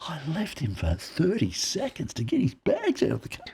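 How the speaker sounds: high-pitched exasperation; incredulous thought. Retold or imitated. Acts out own alarmed thought.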